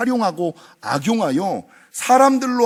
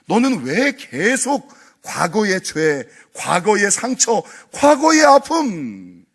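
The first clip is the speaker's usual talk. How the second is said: preacher pleading as God; building insistence; 5 semitones higher than usual. Acted. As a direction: build each clause to a fervent cry.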